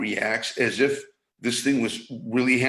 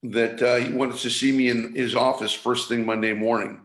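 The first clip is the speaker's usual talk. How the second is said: normal talking voice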